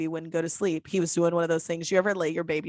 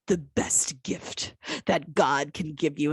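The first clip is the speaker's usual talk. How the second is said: slow, breathy whisper; hushed, imitated preachy awe; mock-reverent whisper; 2 semitones lower, slower than usual. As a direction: whisper it like a sacred platitude. Mocks what women are told.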